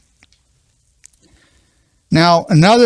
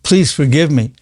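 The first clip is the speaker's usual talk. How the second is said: struggling heartfelt apology. Shown as a demonstration. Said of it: "if you take it further".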